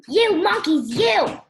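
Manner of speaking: high, loud storybook scolding; angry yell. A narrator's reading. Stomping peddler tells off the monkeys, angry yell. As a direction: raise your voice and pitch in anger. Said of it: "Now he felt quite angry".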